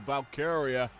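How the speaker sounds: growl into emphasis. Shown as a demonstration. Commentator calling the finish with a growl. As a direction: growl the winner's name out. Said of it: "It's the growl into that emphasis".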